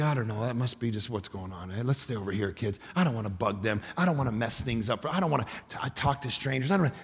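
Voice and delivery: timid hushed self. Retold or imitated. Pastor imitating his timid self to his kids, hushed. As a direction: play your timid old self backing away. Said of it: "I'd be like".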